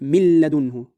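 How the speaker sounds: من لدنه with the n fully merged into a doubled l; no trace of n in من لدنه, straight into a firm l; idgham without ghunna. Shown as a demonstration. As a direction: recite من لدنه as "mil-ladunhu", no nasal hum. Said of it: "أمثلة على ذلك".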